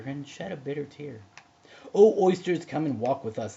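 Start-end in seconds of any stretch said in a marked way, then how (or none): 1.9-3.6 pleading walrus call; beseeching. A narrator's reading. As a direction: beg the oysters to come. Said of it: "the Walrus did beseech".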